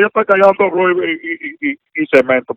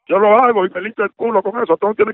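indignant outburst; 4 semitones higher than usual. Real, not acted. Man yelling at fake Treasury agent, heated and defiant. Victim furious at caller.

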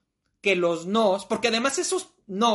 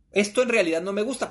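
serious; faster than usual. Shown as a demonstration. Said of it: "pero hablando en serio".

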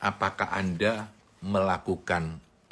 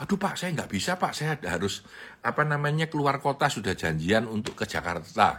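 excuse-making employee; 5 semitones higher than usual. Retold or imitated.

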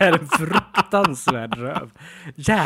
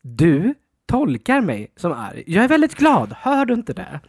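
mock irritated protest; 3 semitones higher, 6 dB louder than usual. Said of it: "Du låter arg".

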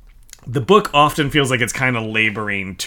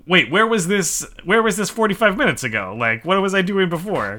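mock disbelief; 5 semitones higher than usual. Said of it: "makes you go".

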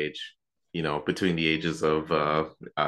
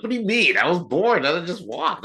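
innocent retort; 12 semitones higher, 5 dB louder than usual. Retold or imitated. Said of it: "I'm like".

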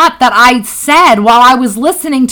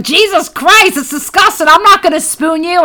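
imitating Vin; 6 semitones higher than usual. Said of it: "and he's like".

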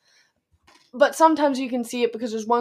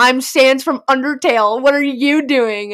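Sans impression; 2 semitones higher, 5 dB louder than usual. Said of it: "pretending to be Sans".

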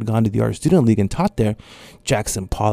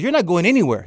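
raspy, higher flat refusal; loud raspy voice; 8 semitones higher than usual. Retold or imitated. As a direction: lay down the law, raspy. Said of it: "really loud, raspy voice".

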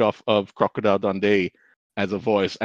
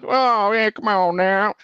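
higher-pitched mock redneck drawl; redneck accent; 10 semitones higher, slower than usual. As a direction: put on a hammed-up redneck accent. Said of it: "a bit of a, like, a redneck".

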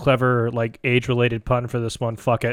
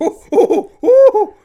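teasing ooh; 7 dB louder, slower than usual. Real, not acted. Teasing over nipple clamps.

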